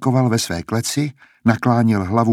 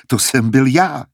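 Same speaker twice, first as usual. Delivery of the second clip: pleased; 3 semitones higher, 3 dB louder than usual. Acted. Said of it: "potěšeně se zasmál".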